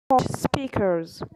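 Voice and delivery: slow English words in a thick French accent; halting French-accented English. Real, not acted. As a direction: read the English slowly, French accent showing. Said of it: "Ne faites pas gaffe à mon accent".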